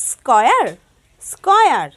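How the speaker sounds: "square" said slowly and clearly twice; teaching pronunciation. Shown as a demonstration. Teacher modelling "square" for the children. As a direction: model "square" for the class to copy. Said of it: "it is".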